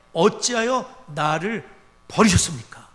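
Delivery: loud, slow, with 어찌하여 drawn out; loud cry of abandonment; loud anguished cry. Retold or imitated. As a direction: cry out as the forsaken Son. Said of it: "예수님이 기도하시길".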